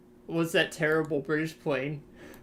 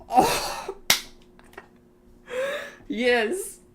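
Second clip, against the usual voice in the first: surprised yelp; 4 dB louder than usual. Real, not acted. Seeing the picture sent.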